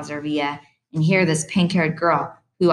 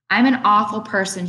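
through tears; 4 semitones higher, 4 dB louder than usual. Acted. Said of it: "she says throughout, through her tears".

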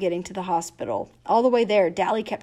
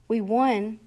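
panting; 2 semitones higher than usual. Acted. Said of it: "Dally panted".

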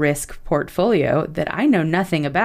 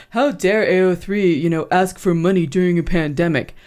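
lightly mocking bro complaint. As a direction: put on a hint of an indignant bro. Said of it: "This is my bro voice".

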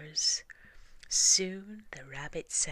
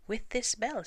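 much higher, proud reveal; proud young mouse; 8 semitones higher, 4 dB louder than usual. Acted. Young mouse showing the family his bell, proud and high. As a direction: show off the bell.

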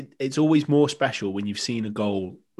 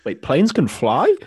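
louder, slow fake amazement; mock surprise; 5 semitones higher, 6 dB louder, slower than usual. Guest teasing himself after travel joke, mock surprised. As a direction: play dumb about planes.

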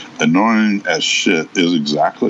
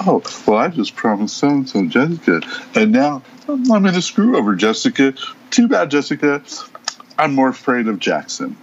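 high, squeaky mock player voice much higher; mock contestant; 8 semitones higher than usual. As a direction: parody a whiny scheming player, pitched way up. Mocking a contestant's scheming gameplay.

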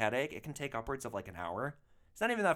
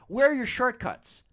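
much higher, louder put-on passenger voice; mocking the passenger; 10 semitones higher, 8 dB louder than usual. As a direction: parody her demanding tone. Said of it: "and she's like".

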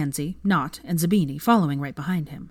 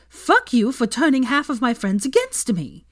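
high, loud furious accusation; 7 semitones higher, 5 dB louder than usual. A narrator's reading. Hermione raging at her cheating ex in the pub. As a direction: jab each word at him.

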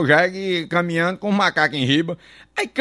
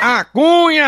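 high, slow, laughing call of A Cunha; sung-out catchphrase; drawn-out catchphrase call; 7 semitones higher, 4 dB louder, slower than usual. Real, not acted. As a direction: stretch the name out high with a laugh. Catchphrase called out.

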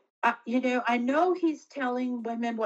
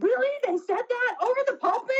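incredulous; faster than usual. Retold or imitated. Disbelieving reaction retold to husband.

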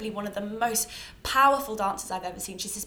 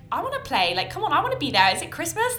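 put-on high, louder childish whine; whiny excited plea; 7 semitones higher, 5 dB louder than usual. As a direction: beg to join in, rising high. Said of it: "and I'm like".

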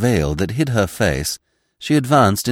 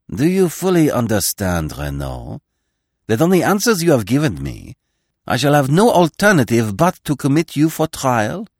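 stern magistrate; 6 semitones higher, 3 dB louder than usual. A narrator's reading. Magistrate questions the prisoner.

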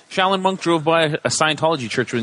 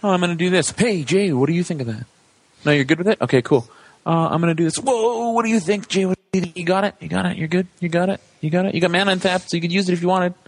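acted-out players checking in; 6 semitones higher, faster than usual. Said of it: "But in Moto, it's like".

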